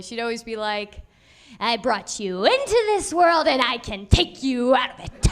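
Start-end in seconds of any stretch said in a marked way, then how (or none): 1.6-5.3 imitating mom's threat. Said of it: "my mom always used to tell me".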